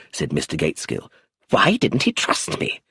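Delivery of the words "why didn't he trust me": breathy, hurt question; wounded, half-whispered complaint; upset. A narrator's reading. The old lawyer hurt by his client's secrecy, upset. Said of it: "He was obviously upset".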